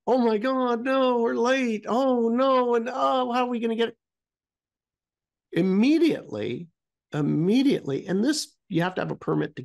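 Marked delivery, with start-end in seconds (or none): 0.0-4.0 mock-worried whining, pitched higher; a hint of fretful panic; imitating panic. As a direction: play the stressed traveler, hammed-up. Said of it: "it wasn't like".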